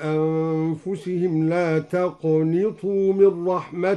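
slow, chanted tajweed recitation; Quran recitation. Acted. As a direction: recite with measured melody. (تلاوة مجودة)

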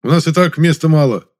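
loud indignant exclamation; exclaiming. A narrator's reading. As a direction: shout your protest. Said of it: "воскликнул небритый мужичок".

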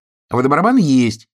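a hare breaking the hush to insist; loud quick objection. A narrator's reading. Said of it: "— вслух сказал Заяц".

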